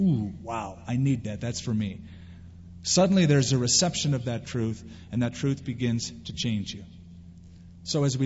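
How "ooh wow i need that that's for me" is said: soft, awed murmur to oneself; hushed awe. Retold or imitated. A churchgoer quietly struck by the verse, hushed. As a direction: breathe it out, struck and moved. Moved hearer whispering to self.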